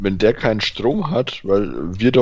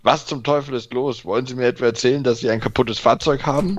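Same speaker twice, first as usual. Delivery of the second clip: higher, fast angry squawk over intercom; 4 semitones higher than usual. Acted. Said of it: "Quäkt die Stimme wütend".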